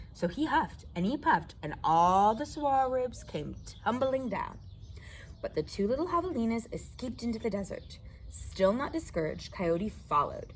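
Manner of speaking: put-on lively read-aloud for kids; reading to children. A narrator's reading. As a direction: tell the story to a circle of children. Reads picture book to children.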